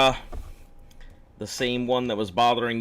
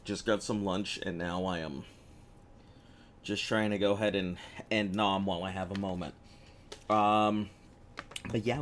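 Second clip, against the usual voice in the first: talking through a mouthful; eating between words; chewing while talking; 3 dB quieter than usual. Real, not acted. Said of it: "please excuse the eating noises".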